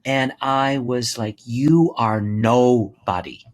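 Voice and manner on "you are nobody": loud, drawn-out denunciation; retold scream. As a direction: slowly pronounce it at him, forceful but not screamed. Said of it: "and I had screamed".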